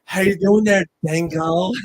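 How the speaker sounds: imitated Irish bartender greeting; mock Irish lilt, playful; Irish accent. Bartender coming back round to the customer, lightly imitated Irish accent. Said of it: "the Irish accent's a good accent".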